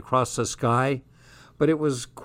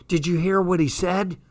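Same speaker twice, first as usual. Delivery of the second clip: excited; 5 semitones higher than usual. Acted. Jazz ecstatic after meeting Tom.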